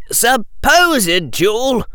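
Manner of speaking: high, slow sharp challenge; boy challenging the headmaster sharply. A narrator's reading. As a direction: hit supposed hard. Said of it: "Harry said sharply".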